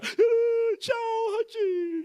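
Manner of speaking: high, sobbing goodbye; mock weepy daughter bidding her rat farewell; tearful child farewell. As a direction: imitate a little girl crying goodbye. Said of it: "daughter saying goodbye to rat".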